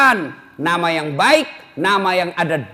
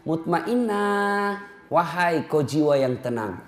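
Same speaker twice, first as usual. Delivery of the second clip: soft, slow, drawn-out call; quiet reverent address; calling gently; 2 semitones lower, 5 dB quieter, slower than usual. Acted. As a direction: call her like a prayer. People calling her name.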